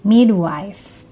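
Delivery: careful, emphatic single-word model for repeating; pronunciation model. Shown as a demonstration. Teacher models a word for students to repeat, carefully articulated. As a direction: say it clearly for learners to copy. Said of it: "Saya ucapkan, lalu kalian coba ikuti".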